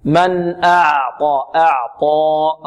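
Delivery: slow أعطى, light flowing ayn and heavy ط; balanced ayn. Shown as a demonstration. Teacher models the correct reading, slow balanced ayn. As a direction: draw out أعطى with a clear moderate ayn. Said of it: "ونعطيها صفة التوسط".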